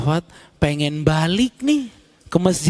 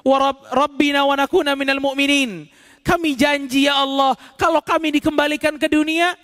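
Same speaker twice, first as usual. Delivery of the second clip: raised, imploring voice of the regretful dead; pleading sinner; 6 semitones higher than usual. Acted. Dead sinners begging God to send them back, pleading. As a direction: beg God like a soul who wants another chance.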